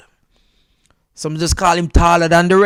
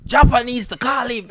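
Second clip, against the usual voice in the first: laughing; 6 semitones higher, 5 dB louder than usual. Real, not acted.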